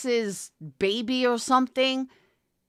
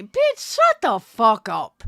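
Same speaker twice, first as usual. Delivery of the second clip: furious shout; 6 dB louder than usual. Real, not acted. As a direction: explode at her. Furious outburst at rival creator.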